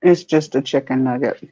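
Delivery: talking while chewing; mouth full. Real, not acted. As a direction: say it through a mouthful. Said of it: "see me with my mouth full".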